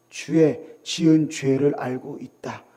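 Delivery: low, slow, quiet menace; accusing devil. Acted. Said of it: "사탄 마귀가요, 우리를 대적해요". (낮고 느리게 위협하는 마귀 목소리)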